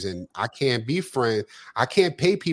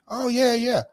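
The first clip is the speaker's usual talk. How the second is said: a sharply higher, overeager "yeah, yeah"; mock eager yes; 11 semitones higher than usual. Friend agreeing to help, hammed-up eagerness. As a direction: play the friend jumping at the chance.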